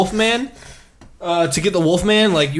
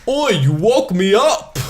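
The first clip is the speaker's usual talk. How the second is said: put-on Yiddish accent; 4 semitones higher, slower than usual. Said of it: "in, like, a Jew voice".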